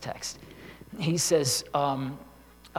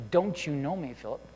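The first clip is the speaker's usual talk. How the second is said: sarcastic. Retold or imitated. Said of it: "It wasn't sarcastically like".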